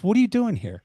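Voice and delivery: imitating a fed-up customer; hammed-up disbelief; mock exasperated demand. Client confronting him.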